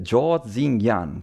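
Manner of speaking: "Zhou Zingyan" drawn out slowly and carefully; tentative, very slow try at pronouncing "Zhou Zingyan"; careful foreign-name attempt. Real, not acted. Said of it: "ci ho provato a dirlo giusto".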